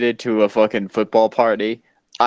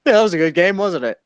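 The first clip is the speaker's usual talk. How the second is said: higher, smug mocking tone; smug gloat; 5 semitones higher, faster than usual. To gloating fans after their team wins, mocking. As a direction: rub it in with a grin. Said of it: "Then you just go".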